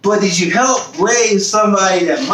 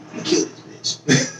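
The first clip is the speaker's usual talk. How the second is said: fast, soft whispered threat; seething whisper; whispered rage; 6 dB quieter, faster than usual. Retold or imitated. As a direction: hiss the thought to yourself. Imagined angry thought alone.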